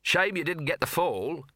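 nervy voice fraying at the edges; hysterical edge. Acted. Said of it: "edges of his voice deckled with hysteria".

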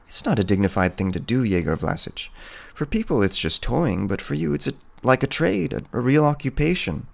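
lightly voiced woman, pitch climbing as she objects; a touch of hesitant, earnest disapproval; timidly reproachful peasant woman. Woman telling the hunter his trade is undignified, lightly voiced reproach.

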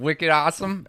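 Boston accent. Shown as a demonstration. Co-host copying the host's Boston accent. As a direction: echo it like a Bostonian. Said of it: "Give me a Boston accent".

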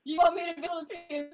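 disbelieving protest; incredulous. Retold or imitated. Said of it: "I was like".

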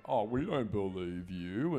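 slow, drawn-out imitation of doubters; mock disbelief. Imitating film characters who doubt the heroine, mock disbelief. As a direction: mimic the dismissive crowd, dragging it out. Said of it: "everyone else is like".

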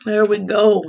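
just after a sip of coffee; words right after swallowing coffee; while sipping a drink. Real, not acted. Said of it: "Let me take a quick sip out of my coffee".

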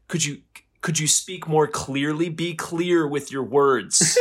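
high, slow, overly precise diction; robot voice. Retold or imitated. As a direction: enunciate every word like a robot. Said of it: "doesn't talk like a human".

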